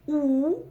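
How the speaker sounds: «у» громко, высоко и протяжно; выдели голосом отдельное «у»; выделенная буква. Shown as a demonstration. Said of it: "Как прочитать букву". (громкое учительское «у»)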